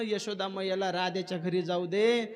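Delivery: mild imploring plea; understated acted entreaty; pleading. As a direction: beg lightly, lifting the last word. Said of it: "काकुळ ती येऊन म्हटला".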